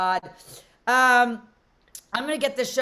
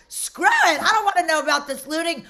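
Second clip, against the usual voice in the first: fed-up outburst, pitched up; retold exasperated dismissal; 4 semitones higher than usual. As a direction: brush it off in exasperation.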